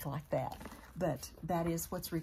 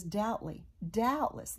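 sarcastic; 3 semitones higher than usual. Retold or imitated. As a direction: say it with pointed mock agreement. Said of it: "he's being sarcastic".

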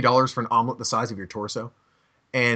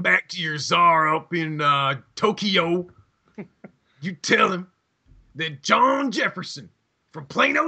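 mock Texan tough guy; 4 semitones higher than usual. Playing a Texan threatening Germans.

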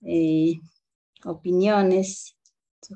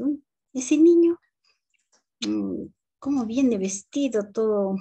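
scornful teacher; 3 semitones higher than usual. Retold or imitated. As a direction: look down on the shabby boy. Teacher mocks poorly dressed boy.

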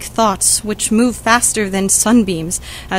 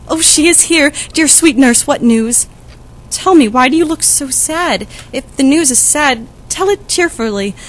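eager excitement; 4 semitones higher than usual. Acted. Juliet greets the returning nurse.

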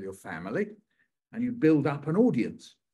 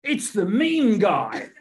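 excited, louder fan with a laugh; 7 semitones higher, 9 dB louder, much slower than usual. Retold or imitated. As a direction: call out like a fan spotting a celebrity. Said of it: "people come up to me and go".

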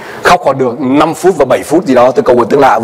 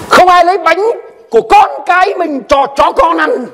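stern rebuke. Acted. Repeating Jesus's insulting words.

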